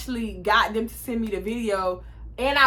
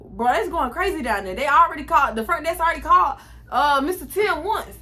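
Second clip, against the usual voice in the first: higher, excited party report; hyped friend; 4 semitones higher than usual. Retold or imitated. Best friend hyping up the wild party downstairs, excited. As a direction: hype her up about the party. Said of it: "She's like".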